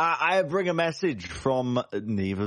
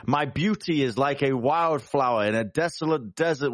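intimidating boast; 3 semitones higher than usual. Acted. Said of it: "I am going to tower over this little man and intimidate".

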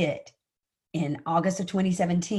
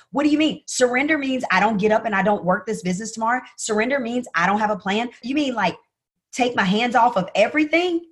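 frantic protest; 5 semitones higher than usual. Retold or imitated. Retelling her argument with God, high frantic protest. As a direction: argue back with God, rattled and insistent. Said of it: "This is me having a conversation".

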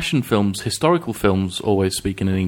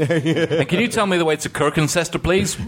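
higher-pitched put-on American accent; mock American tourist; 5 semitones higher than usual. Joining the joke about place names, mock American accent. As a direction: ask like a lost American tourist.

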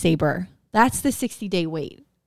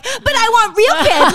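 put-on high, slow whining child; whiny little sister; 11 semitones higher, 6 dB louder, slower than usual. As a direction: whine like a kid who wants real Keds. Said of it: "my sister's like".

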